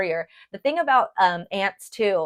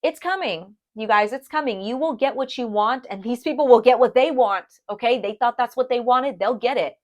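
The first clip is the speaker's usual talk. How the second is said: building up hype as Spirit speaks; worked up and higher about karma coming; getting hyphy; 4 semitones higher than usual. Real, not acted. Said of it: "I'm getting all hyphy".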